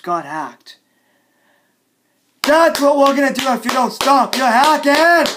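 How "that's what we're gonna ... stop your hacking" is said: raised-voice warning; angry threat. Acted. Threatening the hackers.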